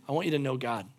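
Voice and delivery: low, soft first take; quiet sincere start; soft earnest plea. Acted. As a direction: say it gently to each listener. Repeats line, fading each time.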